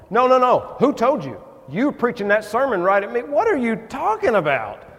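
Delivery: hammed-up churchgoer insisting he was targeted; insistent protest. Congregant insists sermon targeted him.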